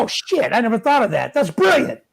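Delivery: high, excited sudden realization; amazed. Retold or imitated. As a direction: gush like it just clicked. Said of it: "You're like".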